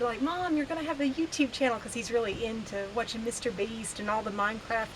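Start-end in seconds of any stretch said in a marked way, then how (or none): 0.2-1.8 put-on quick, higher-pitched excited kid quote; mock excitement, quick and raised; imitating excited son. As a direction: retell it fast, like an eager son. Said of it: "he was so excited".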